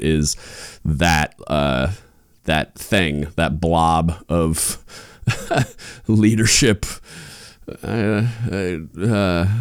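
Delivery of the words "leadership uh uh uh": laughing. Real, not acted. Laughing at own phrasing.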